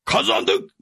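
high rising cry of joy; shouting. A narrator's reading. Sancho hears they won, a high joyful cry. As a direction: squeal the win. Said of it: "diye bağırdı Sancho".

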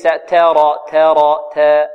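"ترى" with the first vowel leaning to "teh"; wrong taqlil. Shown as a demonstration. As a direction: tilt the a of "تا" toward e. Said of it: "وليس". ("تا" مقللة خطأً)

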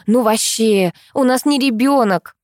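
a hint of a haughty crude woman; brash mother. Mother correcting the teacher, lightly voiced. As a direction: scoff it.

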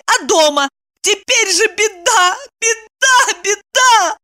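high-pitched frantic lament; despairing wail. A narrator's reading. Woman blaming him for the disaster, despairing wail. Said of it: "завопила в отчаянии Евдокия".

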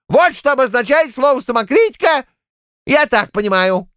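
put-on high, needling old-man voice; high indignant old man; angry old Shchukar. A narrator's reading. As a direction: jab at him like a riled grandad. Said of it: "зло сверкая одним глазом".

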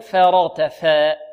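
فرغت فاء with the a bent toward e; over-fronted faa. Shown as a demonstration. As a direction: overdo the thin ف in فرغت, almost "fe". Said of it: "نقلل قليلًا". (نطق فرغت فاء خطأً بإمالة الفاء وتقليلها)

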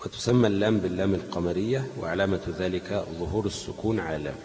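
measured classical Arabic read-aloud; deliberate, fully voweled recital of a text; formal reading aloud. Acted. Reads lesson text aloud.

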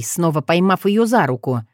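ordinary delivery, nothing marked

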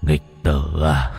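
slow, low ghostly repetition; eerie ghost voice. Acted. Ghost repeating its taunt, slow and low. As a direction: drag it out like a spirit.

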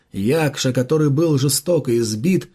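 usual speaking voice

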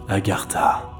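breathed out in astonishment; stunned recognition. Acted. Man discovering the game in the parcel, stunned. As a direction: let the name escape on a breath.

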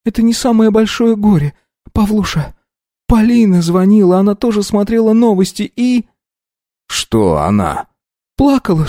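tearful mother. A narrator's reading. Mother tells son of the crash news, weeping. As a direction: sob out the news to your son.

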